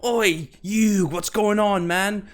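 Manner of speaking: high, loud hammed-up Brooklyn accent; bad Brooklyn accent, half Australian; Joey Brooklyn accent. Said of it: "a terrible Brooklyn accent".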